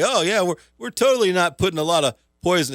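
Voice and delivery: high, loud, quick voice of a lying computer; computer impression. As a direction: play a computer insisting it's innocent. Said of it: "doing an impression of the computer talking".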